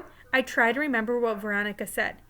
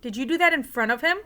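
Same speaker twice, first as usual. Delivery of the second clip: serious; 3 semitones higher, 5 dB louder than usual. A narrator's reading. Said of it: "said Mom, getting serious".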